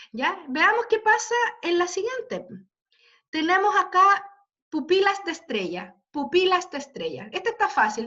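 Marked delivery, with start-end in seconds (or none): 4.7-7.3 "pupilas de estrella" with the beat on "pi" and "tre"; rhythmic stress. Shown as a demonstration. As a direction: scan "pupilas de estrella" by its accents. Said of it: "¿Dónde están los acentos?". (recitado rítmico marcando "pi" y "tre")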